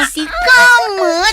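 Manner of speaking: slow, drawn-out furious yell; angry shout. Acted. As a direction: bellow it at the kids, stretching every sound. Aunt yells at the children.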